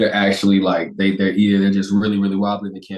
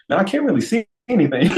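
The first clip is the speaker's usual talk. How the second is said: dazed quote; 9 semitones higher, 3 dB louder than usual. Retold or imitated. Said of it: "I was like".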